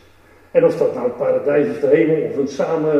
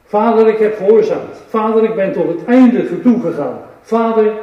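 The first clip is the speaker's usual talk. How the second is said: louder earnest prayer to the Father; Jesus on the cross, calling to his Father; Jesus praying aloud; 4 semitones higher, 4 dB louder than usual. Acted. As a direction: cry out your obedience to the Father. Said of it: "roept hij".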